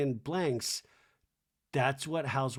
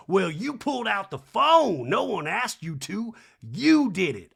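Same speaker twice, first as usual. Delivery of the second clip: high, loud mock housewife; 5 semitones higher, 5 dB louder than usual. Recapping a castmate blaming Kyle in a high voice. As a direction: jab the blame at her.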